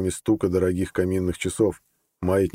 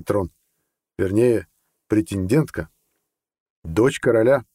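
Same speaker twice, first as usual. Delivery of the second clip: blunt colonel; 4 semitones higher, 4 dB louder than usual. Acted. Colonel's speech to the plotters.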